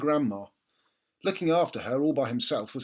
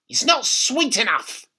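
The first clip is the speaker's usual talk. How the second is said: put-on slow, higher, louder old woman's command; bossy grandma; 10 semitones higher, 7 dB louder than usual. A narrator's reading. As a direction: lay down the rule slowly. Grandma complains about tea.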